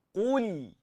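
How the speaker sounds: "Qul" with heavy qaf and thin L; thin lam. Shown as a demonstration. Teacher correcting students, "Qul" with thin lam. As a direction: keep the L in "Qul" light. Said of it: "yang nipisnya lam".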